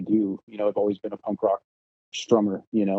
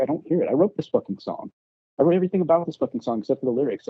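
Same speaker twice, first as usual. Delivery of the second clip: higher-pitched, aggrieved complaint; retold indignant protest; 5 semitones higher, faster than usual. Guitarist to bandmates about his missing guitar, indignant. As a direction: replay the argument, pitch lifted in indignation.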